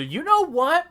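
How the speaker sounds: high silly buddy voice. Acted.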